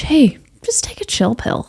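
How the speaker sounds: gentle, soft and kind; endearing. Shown as a demonstration. Host showing listeners the kind version, soft and endearing. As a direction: offer it like a caring friend. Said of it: "in an endearing way".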